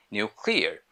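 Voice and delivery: nuclear said British style as "nyoo-clear"; British pronunciation. Shown as a demonstration. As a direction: say "nuclear" the British way, with a y-glide after n. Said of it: "British people say".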